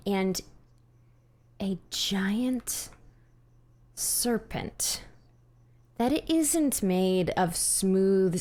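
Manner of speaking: slow, hushed horror reveal; game master narration. Acted. Game master reveals the serpent to player, slow suspenseful narration. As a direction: let the dread build through long pauses.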